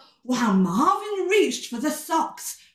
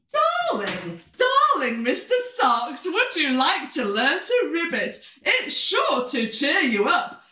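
higher-pitched, lilting character voice; lightly voiced Fabby; 4 semitones higher than usual. Fabby offering to cheer up Mister Socks, lightly voiced, higher. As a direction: coax a sad friend in a higher voice.

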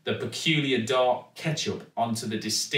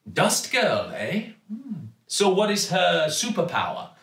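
raised, curious shopkeeper voice; curious Raj; 8 semitones higher than usual. A narrator's reading. Raj asks the girl about her superpower, genuinely curious. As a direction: lean in with real curiosity. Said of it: "genuinely curious".

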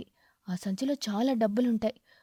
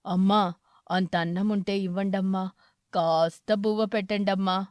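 put-on old beggar; 4 semitones lower than usual. Old eagle begs at door.

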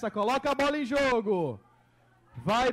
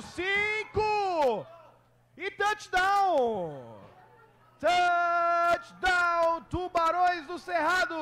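touchdown call; 2 semitones higher, much slower than usual. Real, not acted. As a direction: stretch out the touchdown like a commentator. Commentator calls the touchdown.

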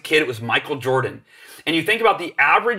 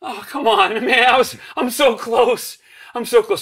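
frustrated groan; 9 semitones higher, 3 dB louder than usual. Retold or imitated. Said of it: "And my heart just sinks".

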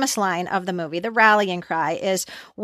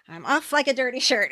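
lightly acted movie quip, pitched up; Ducky quote; 4 semitones higher, 4 dB quieter than usual. Fan quoting Ducky's exit line to co-host, lightly acted. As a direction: toss it out like Ducky's catchphrase. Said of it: "unless you go like this".

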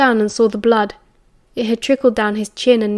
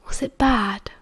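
soft, hushed, careful question; gentle, lowered voice; 6 dB quieter, slower than usual. A narrator's reading. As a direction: ask gently, as if to an invalid. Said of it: "Sirius asked gently, lowering his voice".

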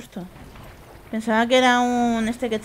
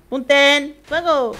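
mock commander shout; 4 semitones higher, 6 dB louder, much slower than usual. Playful command to shoot.

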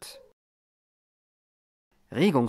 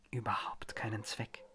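unvoiced whisper, much softer; 3 semitones lower, 13 dB quieter than usual. A narrator's reading. Mary whispering to the eye in the bowl, hushed. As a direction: hiss "keinen Zweck" low and breathless. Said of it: "flüsterte sie".

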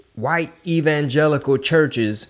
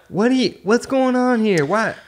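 high-pitched incredulous questioning; hammed-up, high "what is this?" reaction; mock bewilderment; 12 semitones higher than usual. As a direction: squeal it in exaggerated disbelief. Mock reaction to the radio report.

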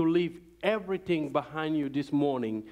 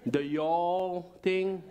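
southern drawl; 2 semitones higher, much slower than usual. Shown as a demonstration. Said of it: "maybe you can hear the southern accent".

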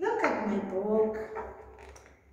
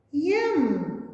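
yum; 4 semitones higher than usual. Acted. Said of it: "said Lucky".

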